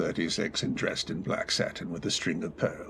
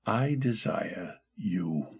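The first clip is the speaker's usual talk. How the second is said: tender declaration; slower than usual. Acted. Romantic declaration.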